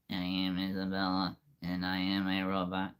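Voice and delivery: plain read of the robot line. Shown as a demonstration. Showing the robot line in his own voice. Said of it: "Now let's try to put those two together".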